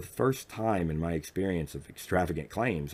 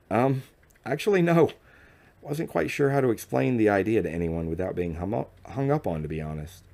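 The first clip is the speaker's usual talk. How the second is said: higher, louder, eager friendly answer; friendly nervous reply, higher and louder; congenial reply; 4 semitones higher, 4 dB louder than usual. Acted. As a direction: brightly reassure the nervous guest. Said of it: "I responded congenially".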